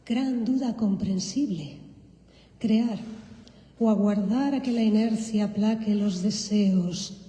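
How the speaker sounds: measured, expressive poem recital in Spanish; poetry reading. Acted. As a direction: read it like a poet on stage. Reads her poem in Spanish.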